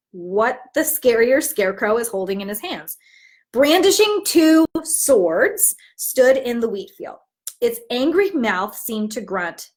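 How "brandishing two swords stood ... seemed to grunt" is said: slow, weighty build-up to the scary figure; slow dramatic storytelling. Acted. Teacher reveals the giant scarecrow to the class, slow and dramatic. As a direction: draw it out to make the children lean in.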